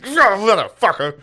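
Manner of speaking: high, loud imitation of a scare reaction; mock startled outburst; startled cursing. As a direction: act out being grabbed from behind and swearing. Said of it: "Grabbed his sides".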